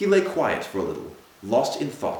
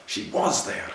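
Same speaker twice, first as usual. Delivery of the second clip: breathless whispered repeat; broken whisper; 5 semitones higher than usual. A narrator's reading. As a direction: whisper it to yourself, beaten.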